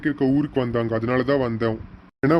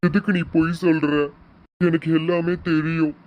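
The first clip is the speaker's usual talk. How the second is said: choked, unconsoled protest; tearful father; 2 semitones higher than usual. Acted. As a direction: refuse comfort through held-back tears. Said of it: "அப்பா அழுகாதீங்கப்பா". (அழுகையோடு மனம் உடைந்த குரல்)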